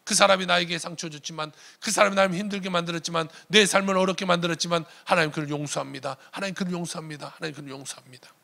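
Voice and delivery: acting out a prayer of forgiveness; retold forgiveness prayer. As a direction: recite a repeated prayer, letting it trail away. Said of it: "이름을 외치면서 기도".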